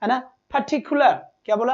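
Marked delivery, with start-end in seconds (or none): 0.6-1.1 "particular" slowed, syllables marked out for stress; word stress demo. Shown as a demonstration. Teacher modelling word stress, "particular" spoken slowly and emphatically. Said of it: "इस तरीके से बोला जाता है इन words को".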